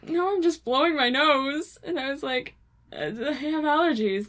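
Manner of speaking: laughing protest. Retold or imitated.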